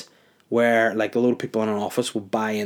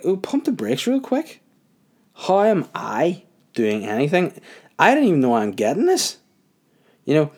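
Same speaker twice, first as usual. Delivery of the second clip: higher-pitched mock indignation; indignant protest; 4 semitones higher than usual. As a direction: retell an incredulous, defensive protest. Retold protest at unfair complaint.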